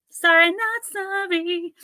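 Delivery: "Sorry, not sorry" high, slow and sassy. Pretend. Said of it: "I'd say".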